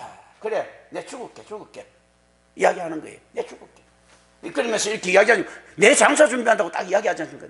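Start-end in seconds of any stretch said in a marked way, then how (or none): 0.0-1.9 softly muttered, offhand resignation; hands-in-pockets nonchalance. Acted. Preacher voicing Jesus accepting death, quiet and nonchalant. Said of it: "주머니 손 탁 넣고 이야기하는". 3.3-3.8 softly muttered, offhand resignation; hands-in-pockets nonchalance. Acted. Preacher voicing Jesus accepting death, quiet and nonchalant. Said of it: "주머니 손 탁 넣고 이야기하는".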